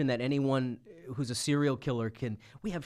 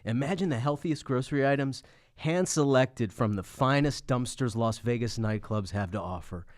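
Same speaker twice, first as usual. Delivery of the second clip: measured commercial announcer delivery; mock ad read. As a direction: read it as an earnest sponsor spot.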